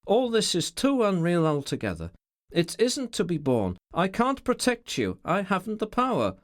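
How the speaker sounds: high, rising, rough outcry; rough outburst. A narrator's reading. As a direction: let the helplessness break out roughly. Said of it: "he cried roughly".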